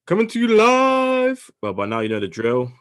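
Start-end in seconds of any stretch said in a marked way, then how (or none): 0.0-1.5 high, loud, drawn-out announcer call; ring announcer. Pretend. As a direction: stretch every word like a ring announcer. Show-opening announcer call.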